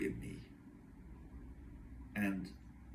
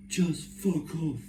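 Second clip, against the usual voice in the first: higher, drawn-out mock angry dismissal; imitated curt dismissal; 8 semitones higher, 4 dB louder, slower than usual. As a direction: imitate dad slowly telling someone off. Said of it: "how dare he speak to me like that".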